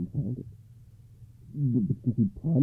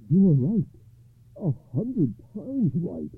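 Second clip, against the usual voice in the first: deliberate, sage agreement; lightly voiced wise rabbi; calm rabbi; 6 semitones higher, slower than usual. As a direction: agree emphatically, then slow right down. Rabbi agrees with poor man.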